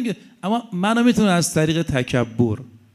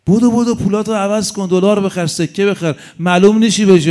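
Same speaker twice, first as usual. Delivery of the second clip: louder, higher, rushed egging on; Satan's urgent whisper-in-ear; 4 semitones higher, 5 dB louder than usual. Acted. Preacher voicing Satan hurrying people to buy, pressing and loud. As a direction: push them to buy dollars and coins, hurry.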